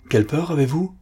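roared. A narrator's reading. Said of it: "rugit l'officier".

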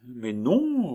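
put-on girl insisting no; little girl.

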